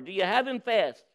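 panting. Acted. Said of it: "panted the farmer".

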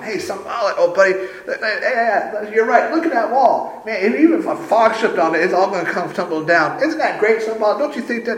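high, excitable, fawning toady; Tobiah. Acted. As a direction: suck up excitedly like a yappy cartoon terrier. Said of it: "like that little dog jumping around the big one".

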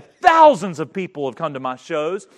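furious preacher's retelling; retold angry outburst. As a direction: bellow it like the angry magician. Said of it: "he got angry".

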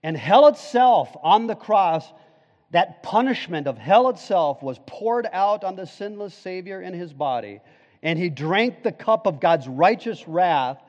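loud, driving pulpit preaching; preaching at full force. Acted. Pastor preaching the cross to his church, fervent. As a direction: build it like a revival climax. Sermon builds to climax.

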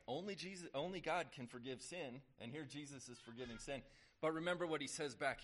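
forceful preaching. Real, not acted.

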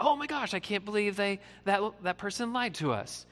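a high "oh my gosh", mock shocked; mock surprise. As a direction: imitate someone caught off guard by a lie. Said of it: "we act surprised".

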